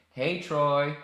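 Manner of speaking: half-playful yelled hey; mock yell. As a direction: shout the hello at Troy. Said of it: "Why am I yelling?".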